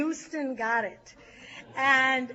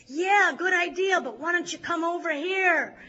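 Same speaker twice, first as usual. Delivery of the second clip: higher and louder call back; retold screaming; 5 semitones higher, 5 dB louder than usual. Northern California shouting back at the south, a high, loud call. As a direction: holler back across the room. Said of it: "Northern California is screaming".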